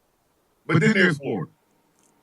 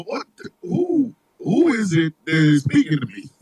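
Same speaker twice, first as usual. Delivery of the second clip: haughty disbelief; 5 semitones lower than usual. Acted. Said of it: "look at him and go".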